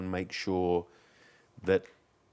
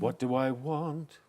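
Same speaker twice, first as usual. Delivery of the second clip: slow, higher question; slow pondering; 6 semitones higher, slower than usual. Shown as a demonstration. Demonstrating the moment after singing, slow and pondering. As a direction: draw it out as if thinking. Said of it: "But they go".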